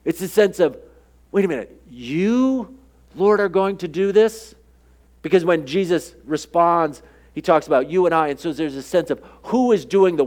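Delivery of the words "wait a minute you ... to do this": doubting, hit the word "you"; stress on you. Shown as a demonstration. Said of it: "the emphasis here is really on the you and my".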